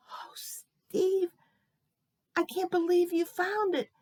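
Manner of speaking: high-pitched crying old lady, acted; tearful. Old lady thanks boy for found wallet, acted tearful. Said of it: "She started to cry".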